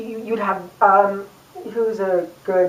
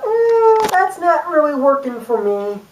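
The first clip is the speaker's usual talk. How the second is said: mock dismissive; 5 semitones higher than usual. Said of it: "people kind of like".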